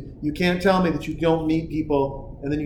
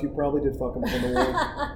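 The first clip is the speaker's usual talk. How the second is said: laughing; 2 semitones lower, 4 dB quieter than usual. Real, not acted. Laughing while quoting himself.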